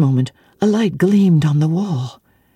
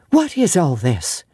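peremptory demand. Acted. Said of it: "demanded another voice peremptorily".

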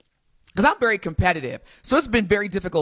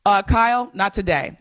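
deliberately slower. Shown as a demonstration. Host repeats her refusal for Kyle, deliberately slower. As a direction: spell it out for him, word by word. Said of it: "I can say it slower".

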